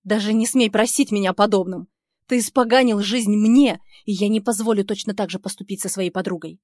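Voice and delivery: громче и выше, жёстко; отчитать без жалости; гневно. Acted. Героиня в гневе. (героиня гневно отказывает Нику)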